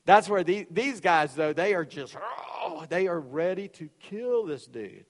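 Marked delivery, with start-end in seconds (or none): 2.6-2.9 drawn-out growl of mock fury; mock enraged growl. Preacher imitating men ready to kill, mock enraged growl. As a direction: act out wordless rage with a growl. Acting out the men's murderous rage.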